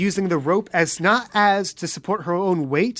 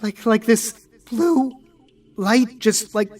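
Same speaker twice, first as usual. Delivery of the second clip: shaken Angel; 3 semitones higher than usual. Acted. Angel describes the eerie light.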